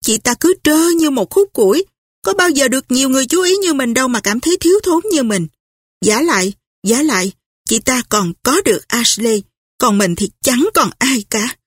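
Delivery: resentful, jealous inner voice, fast at first; bitter thoughts. Acted. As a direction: spit out the envy under her breath. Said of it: "Scarlett đấm mạnh vào gối nghĩ". (giọng ghen tức cay đắng trong đầu)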